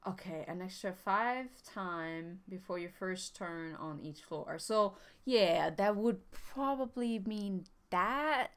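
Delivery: glitchy chipmunk mic audio; chipmunky scrambled voice. Real, not acted. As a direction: voice breaking up like a bad mic. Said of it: "you get all chipmunky".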